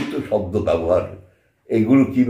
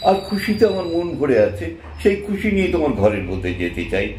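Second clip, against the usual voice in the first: put-on higher, bright girlish reply; Nandini's voice; 5 semitones higher than usual. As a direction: play the joyful young woman calling in. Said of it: "সেই নেপথ্যে রাজাতে প্রথম যে বাক্যটা উচ্চারণ করতেন". (আনন্দে উচ্ছল নন্দিনীর কণ্ঠ)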